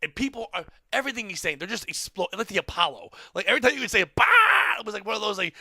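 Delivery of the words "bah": mock explosive roar; imitated crowd burst. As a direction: blurt out a crowd's burst of laughter. Imitates audience exploding with laughter.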